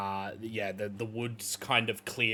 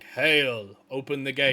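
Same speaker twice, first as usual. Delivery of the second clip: loud hail up to the gate; calling out; 2 semitones higher, 7 dB louder than usual. Acted. Game master voices adventurers at the closed gates, calling out. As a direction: call it out louder, pitch lifting slightly.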